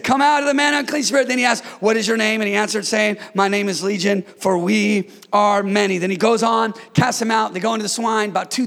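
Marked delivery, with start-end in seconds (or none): 0.0-6.0 loud dramatic reading. Acted. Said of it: "For he said".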